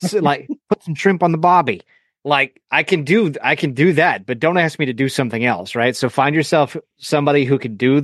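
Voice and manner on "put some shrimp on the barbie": hammed-up Australian accent, a bit higher; mock Aussie line with a different timbre; Steve Irwin. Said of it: "I just know Steve Irwin".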